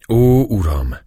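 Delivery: high exclamation to a master; imploring cry. A narrator's reading. Captive Turk falling to his knees before the priest, imploring cry. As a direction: cry out on bended knee. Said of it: "kiáltott a török térdre borulva".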